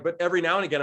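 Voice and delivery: ordinary delivery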